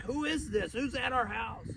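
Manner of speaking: a hint of a jumpy owner; anxious owner. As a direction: owner spooked by a knock, mildly alarmed. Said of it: "your anxiety spins up".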